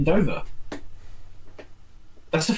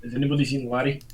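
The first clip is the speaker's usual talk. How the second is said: bad Russian accent; faster than usual. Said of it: "saying Larry in a bad Russian accent".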